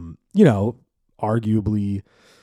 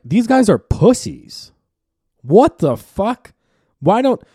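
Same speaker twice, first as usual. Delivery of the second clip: exasperated mock outburst; 12 semitones higher, 8 dB louder, slower than usual. Acting out his exasperated reaction.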